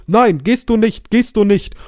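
block the way, drawn out; mock drunk stranger forbidding; drunk man refusing. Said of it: "und der so".

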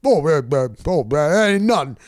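relaxed, dismissive, voiced lightly; easygoing brush-off. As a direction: wave it off like it's nothing. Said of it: "And he's like".

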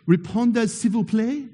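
"Répondez, s'il vous plaît" said in a careful French accent; self-conscious attempt at French "Répondez, s'il vous plaît"; French pronunciation. Shown as a demonstration. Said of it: "I'm gonna say it for you".

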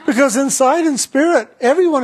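amused by her own memory; chuckling as she speaks; laughing. Real, not acted.

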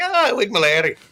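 high, loud tipsy outburst; hyped-up on whiskey. Acted. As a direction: blurt it like a wired whiskey drinker. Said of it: "Whiskey gets you a little hyped up".

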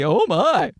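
Victorian lady. Retold or imitated. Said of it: "some kind of friggin' eighteenth century Victorian lady".

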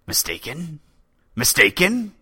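offended poet; outraged disbelief. Acted. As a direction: repeat the word in swelling outrage.

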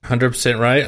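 caller fading in and out on a phone line; faint, crackly phone-line voice; crackly cordless phone. Real, not acted. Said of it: "keep talking right into that microphone 'cause you're fading".

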